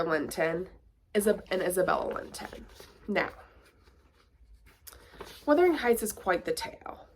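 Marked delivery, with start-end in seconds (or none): 5.5-7.1 mock grand. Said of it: "I say".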